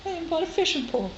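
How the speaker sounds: proudly showing off her new fishing pole; excited. Real, not acted. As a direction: blurt it out, delighted with yourself. Repeats line, second time excited.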